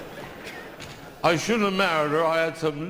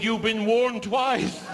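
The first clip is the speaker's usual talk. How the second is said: slow ominous read; 4 semitones higher, slower than usual. Acted. Reading graffiti punchline.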